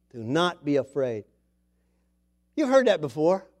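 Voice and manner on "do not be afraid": quieter, lower restatement; soft repeat. Shown as a demonstration. Preacher repeating the words softly to his congregation, tender. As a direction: say it again gently to the flock. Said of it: "repeats it softly".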